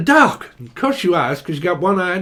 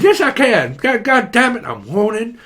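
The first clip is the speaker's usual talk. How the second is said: hammed-up excited voice; 3 semitones higher, 4 dB louder than usual. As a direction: act the overexcited one, hammed up. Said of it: "what I'm hearing is".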